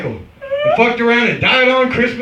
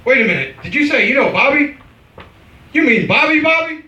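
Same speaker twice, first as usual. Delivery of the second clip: surprised; 5 semitones higher than usual. Retold or imitated. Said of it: "they'll be saying shit like".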